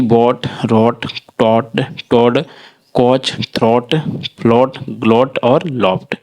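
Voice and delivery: oa in बॉट and थ्रॉट said as a plain ओ; careful word demo. Shown as a demonstration. Teacher modelling the oa sound for learners. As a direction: draw out रॉट and टॉट slowly with a long ओ. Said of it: "ओ हो जाता है".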